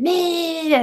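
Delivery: high, scornful "Meh" at another driver; mock dismissive grunt aimed at a bad driver. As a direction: sneer it like a rude driver. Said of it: "at you like this".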